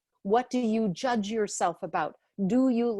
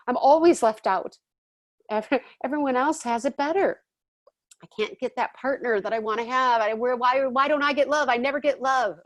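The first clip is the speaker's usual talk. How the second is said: higher, louder litany of complaints; complaining victim; 4 semitones higher, 4 dB louder than usual. Retold or imitated. A complainer telling her story about life, in a loud whine. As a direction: whine through every never. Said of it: "What's your story about life?".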